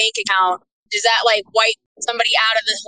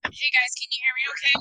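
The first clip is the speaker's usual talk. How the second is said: thin tinny phone voice with no bass; tin can voice; 3 semitones higher, 7 dB quieter than usual. Real, not acted. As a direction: sound like a call from inside a tin can. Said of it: "you sound like you're in a tin can again".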